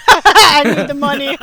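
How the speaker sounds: loud, laughing quote; giggling put-on reply; laughing mock line. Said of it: "Junior would be like".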